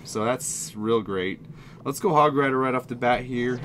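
ordinary talk, nothing marked

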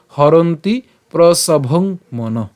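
হরন্তি প্রসভং মন slowly, syllable by syllable; careful model reading of হরন্তি প্রসভং মন; pronunciation demo. Shown as a demonstration. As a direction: separate each part of হরন্তি প্রসভং মন. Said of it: "তাহলে উচ্চারণটা কেমন হবে?".

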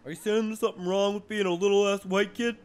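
mock offended. Mock outrage at friend.

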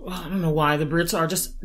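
usual speaking voice

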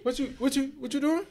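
high squeaky startled voice; mock surprise. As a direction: play the caught-off-guard man. Acting surprised partner.

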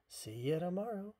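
loud, high duck voice; high, loud cheery send-off; exclaimed farewell. A narrator's reading.

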